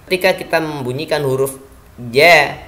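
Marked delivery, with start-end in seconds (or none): 2.1-2.6 "ja" loud, with no breath escaping; jahr jim. Shown as a demonstration. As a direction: hold the breath back on "ja". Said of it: "tidak ada nafas". ("ja" tegas tanpa embusan nafas)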